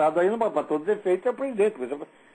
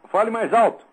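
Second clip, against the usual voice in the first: loud and raised over a bad line; to someone hard of hearing; 4 semitones higher, 7 dB louder than usual. Real, not acted. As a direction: push it loud down the phone. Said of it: "Esse telefone tá horroroso".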